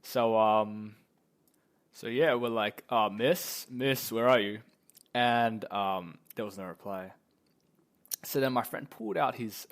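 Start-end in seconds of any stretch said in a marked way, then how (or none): 2.9-4.6 louder, lightly acted searching call; mock-call for a missing teacher. Calling out to vanished teacher.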